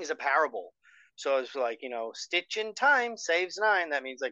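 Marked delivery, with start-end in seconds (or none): 2.1-3.9 put-on slow, lifted Irish-accented proverb; lilting Irish saying, drawn out; Irish mother. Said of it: "an Irish person would".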